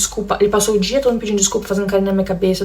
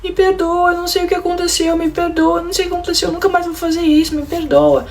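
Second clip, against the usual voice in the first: higher, whiny pleading husband; imitating crying husband; 9 semitones higher than usual. Husband at the bathroom door begging wife's forgiveness, high whiny plea. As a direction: beg forgiveness, pitched up and pleading. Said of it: "começava a chorar e falava assim".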